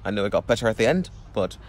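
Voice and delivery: imitated Scottish accent, turned right up. Shown as a demonstration. Explaining a Scottish saying to viewers, Scottish accent. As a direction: lay on a put-on Scottish accent. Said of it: "I've completely turned on my Scottish accent".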